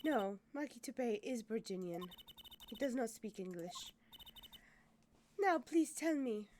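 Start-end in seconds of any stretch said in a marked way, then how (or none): 0.0-3.9 put-on light French accent. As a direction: speak English with a soft French accent. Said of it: "I'm gonna drop that accent".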